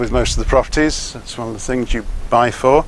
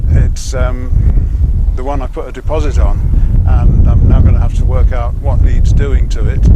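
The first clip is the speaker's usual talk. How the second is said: shouting over wind; 4 dB louder than usual. Real, not acted. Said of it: "Sorry about the wind noise".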